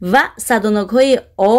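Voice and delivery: normal talking voice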